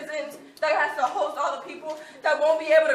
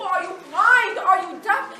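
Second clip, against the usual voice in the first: raised, indignant questions; accusing, louder; angry challenge; 4 semitones higher, 5 dB louder, slower than usual. Real, not acted. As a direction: throw the questions at them. Student confronting board members.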